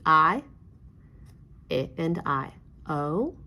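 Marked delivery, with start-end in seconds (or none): 1.7-2.5 I as short "ih", then I as its letter name "eye"; short then long vowel. Shown as a demonstration. Teacher reviewing vowel sounds with class, short then long I. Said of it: "review short and long vowel sounds".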